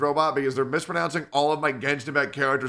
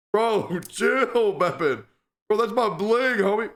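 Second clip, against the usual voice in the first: frat bro; 6 semitones higher, slower than usual. Real, not acted. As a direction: rein in the cat like a buddy. Scolding the biting cat.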